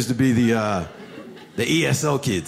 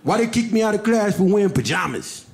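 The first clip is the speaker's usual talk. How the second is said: mildly voiced upset teenager; a hint of a street-talking kid, worked up; upset teen; 5 semitones higher than usual. Pajama kid complaining to teacher, lightly voiced teen. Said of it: "He's like".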